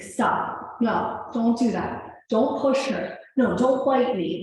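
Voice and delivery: put-on stern dad telling kids off; scolding kids.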